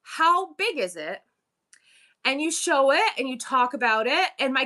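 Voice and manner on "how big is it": slow, lightly higher sweet-talking viewer; mock sweet chat comment; sweet commenter voice. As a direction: gush kindly over an item. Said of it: "and I say".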